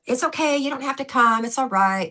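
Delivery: hammed-up fawning apology; mock gushing. Speaker mocking an overly polite ask, gushing. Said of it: "gushing over with".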